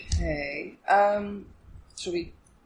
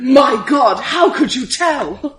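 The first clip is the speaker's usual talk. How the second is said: higher, drawn-out fake astonishment; mock amazement; 3 semitones higher, slower than usual. Player teasing friend over obvious diagnosis, mock amazed. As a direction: stretch it out in hammed-up disbelief.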